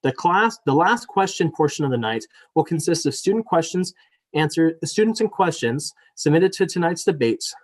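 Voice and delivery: scripted public welcome and rules read-out; formal debate moderator. Real, not acted. Reads formal debate opening.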